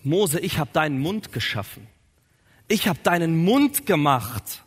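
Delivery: measured, mildly annoyed reproach; growing annoyance. Acted. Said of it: "schon langsam genervt".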